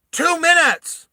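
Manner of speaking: high, loud mom voice; mum calling. Acted. Mum yelling to her son from the kitchen, high and loud. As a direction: call it out from the kitchen. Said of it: "the mum goes".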